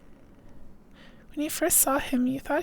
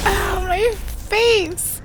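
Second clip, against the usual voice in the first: mock pain; 5 semitones higher, 7 dB louder, much slower than usual.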